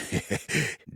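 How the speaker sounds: small, embarrassed laugh; nervous chuckle. Acted. Admitting he wants to kiss a friend, nervous chuckle. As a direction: chuckle shyly after an awkward admission.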